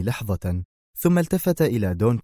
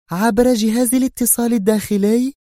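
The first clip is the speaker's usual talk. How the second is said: high woman's voice, rising, repeating in disbelief; tense Sonia; 13 semitones higher, 4 dB louder than usual. A narrator's reading. Sonia repeats the Don's words, tense and questioning. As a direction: echo his words back, uneasy. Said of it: "في توتر وهي تردد".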